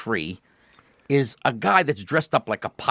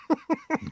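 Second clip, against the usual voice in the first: high laugh; 5 dB quieter than usual. Real, not acted. Laughs at own joke.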